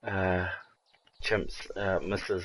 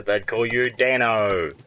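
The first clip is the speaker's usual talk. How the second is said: Aussie nickname Dano; 3 dB louder, slower than usual. Shown as a demonstration. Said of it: "Everything's got an O on the end".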